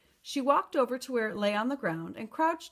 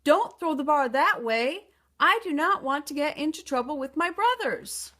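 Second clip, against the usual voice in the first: worried plea; 5 semitones higher, 5 dB louder than usual. A narrator's reading. Giant pleads, alarmed.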